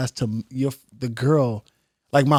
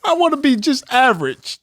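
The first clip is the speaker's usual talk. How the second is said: high mock-tragic whine; mock whiny braggart; 11 semitones higher than usual. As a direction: plead it like a spoiled star. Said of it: "it's cold up here".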